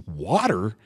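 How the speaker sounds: "Water" questioned with broad open first vowel; mocked West Coast pronunciation. Wisconsin man mocks West Coasters, broad-vowel "Water". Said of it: "you can tell the West Coast".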